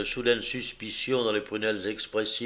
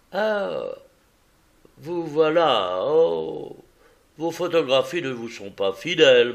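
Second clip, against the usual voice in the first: eager visitor voice; 3 semitones higher, 3 dB louder than usual. Acted. Visitor greeting Holmes on arrival, lightly voiced and effusive. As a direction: gush your greeting to the detective.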